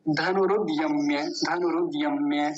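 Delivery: धनुरुद यम्य as one unbroken flow; right joined reading. Shown as a demonstration. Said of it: "पूरे का उच्चारण कैसे होगा". (धनुरुद यम्य बिना रुके एक साथ)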